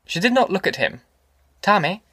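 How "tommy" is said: higher, tentative mother's voice; hesitant, timid. Acted. Ma calling her son's attention, hesitant and timid. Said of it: "she said hesitantly, timidly".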